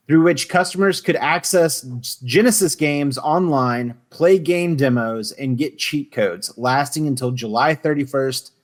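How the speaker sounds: measured read-out of an encyclopedia entry; reading aloud. Real, not acted. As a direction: recite the facts like a reference article.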